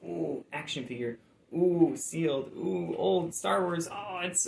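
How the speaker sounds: high, gushing oohs, imitating eager sellers; mock excitement. Reseller imitating people who overprice old toys, mock excited. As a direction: coo over it in a put-on high voice.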